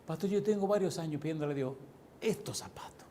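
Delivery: mock-tearful plea fading to a whisper; imitating tearful plea. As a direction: plead softly, voice dropping away on the last words. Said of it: "por qué te llora".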